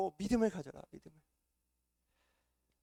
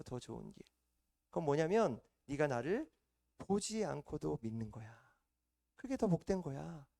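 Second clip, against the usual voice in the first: gentle smiling Jesus. Retold or imitated. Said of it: "환하게 웃으시면서 말씀하지 않으셨을까".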